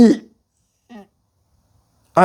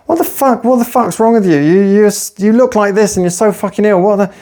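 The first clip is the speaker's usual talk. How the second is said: higher, disbelieving what-the-fuck; mock incredulous outburst; 5 semitones higher than usual. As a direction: play the rude gym guy in shock. Gym guy's rude outburst retold.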